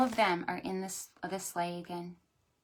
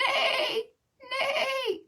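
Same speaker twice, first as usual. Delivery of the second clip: horse neigh. Acted. Host voices horse neigh.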